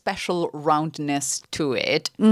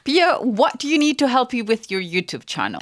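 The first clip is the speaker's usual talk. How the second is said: fatherly voice; 6 semitones higher than usual. Retold or imitated. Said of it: "in a very fatherly manner".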